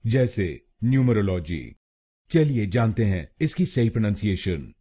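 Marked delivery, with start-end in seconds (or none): 0.8-1.8 न्यूमरोलॉजी said the common wrong Indian way; न्यूमरोलॉजी as most Indians say it. Shown as a demonstration. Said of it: "इस शब्द को गलत बोलते हैं". (गलत उच्चारण में न्यूमरोलॉजी)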